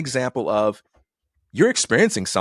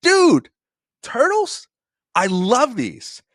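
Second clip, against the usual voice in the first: mock-excited brother; 13 semitones higher, much slower than usual. Brother pretending to receive chocolates, hammed-up high-pitched excitement. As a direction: squeal it with hammed-up glee, stretching the last words. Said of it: "And my brother goes".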